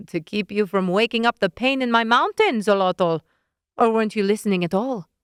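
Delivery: snippy witch voice, lightly done; lightly voiced scolding witch. Witch scolding Leonid, mildly exasperated.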